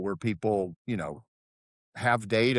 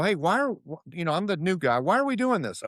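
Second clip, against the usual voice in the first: naive new guy; 6 semitones higher than usual. Retold or imitated. New guy questioning the company.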